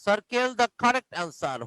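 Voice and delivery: very slow, word by word; slow dictation. Shown as a demonstration. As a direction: spell it out slowly for the class. Teacher dictating slowly to class.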